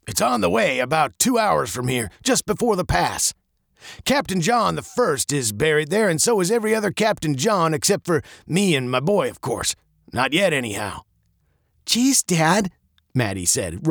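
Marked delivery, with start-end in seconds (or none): 0.1-11.0 lightly voiced captain, sombre; an old captain talking of family graves; a hint of an old captain. 11.8-12.7 exasperated. Acted. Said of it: "rolling her eyes".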